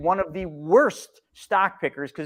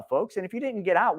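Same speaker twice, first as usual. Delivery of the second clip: ordinary talk, nothing marked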